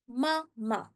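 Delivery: "Mama" in two separated syllables; demonstrated pronunciation. Shown as a demonstration. Teacher repeats "Mama" for learners, syllable by syllable. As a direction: split "Mama" carefully into two beats. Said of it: "when we say it, we say".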